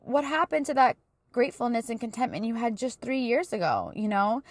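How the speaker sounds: a hint of a disappointed divine voice asking; God speaking. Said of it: "God's like".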